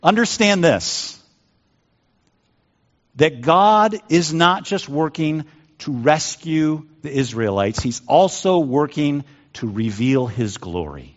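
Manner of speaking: slow, emphatic preacher delivery; deliberate pulpit emphasis; preaching. Real, not acted. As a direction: preach it slowly, weighting each phrase. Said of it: "I'm gonna preach a little".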